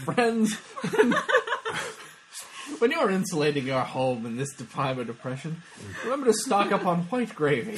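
lightly hammed-up vintage sponsor read; old-time radio pitchman. Host selling white gravy in a Depression spoof, old-time radio pitch. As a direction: address the listeners like an old radio salesman. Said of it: "The, the old-time radio stuff".

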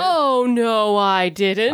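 pantomime villain denial. Acted. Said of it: "call and response stuff".

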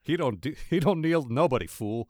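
light jive talk impression. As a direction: tough jive talk, not pushed hard. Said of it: "I can't do the jive talk".

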